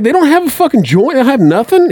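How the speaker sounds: mock outrage. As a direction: sound scandalized there's no weed. Retold outraged complaint.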